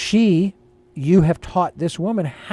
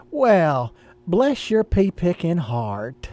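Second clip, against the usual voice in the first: Southern accent; much slower than usual. Shown as a demonstration. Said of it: "you take on a little Southern accent".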